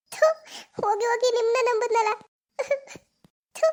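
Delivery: crying in disgust; disgusted sob. Acted. Girl weeping at her cheating lover. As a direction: spit out the regret through tears.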